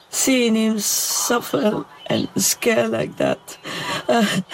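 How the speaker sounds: fighting back tears over the suffering dog; tearful. Real, not acted. Owner grieving her sick dog, tearful and breaking. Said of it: "I just feel so broken".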